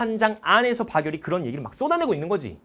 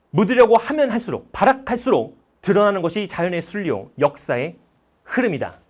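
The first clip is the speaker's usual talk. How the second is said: tearful defiant speech; 5 dB louder than usual. Retold or imitated. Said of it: "엄청난 눈물을 글썽이면서 이렇게 막 얘기를 합니다".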